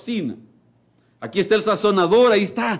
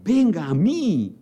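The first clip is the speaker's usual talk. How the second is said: high, slow, raised call; preacher voicing Jesus shouting in the temple; the Lord shouting; 6 semitones higher, slower than usual. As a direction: cry out to the crowd in the temple. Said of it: "el Señor gritando, alzando la voz".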